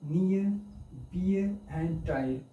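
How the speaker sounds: "near, beer, tire" with r pronounced; common mispronunciation. Shown as a demonstration. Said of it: "but not near".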